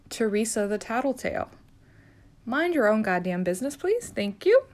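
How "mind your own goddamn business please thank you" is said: sassy telling-off. Acted. Nurse telling the tattletale coworker to butt out, sassy. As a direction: shoo her off with a sassy, sing-song please.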